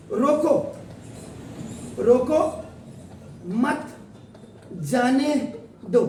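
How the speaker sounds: "रोको, रोको, मत जाने दो" broken by long pauses; word-by-word pauses. Shown as a demonstration. Teacher showing how a comma matters, word by word. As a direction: set each word of "रोको, रोको, मत जाने दो" apart. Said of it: "क्योंकि एक कॉमा देखिए".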